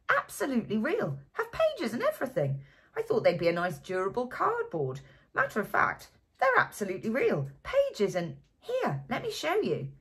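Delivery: put-on a drunk bookish man bursting to share his find; tipsy owl-eyed man. A narrator's reading.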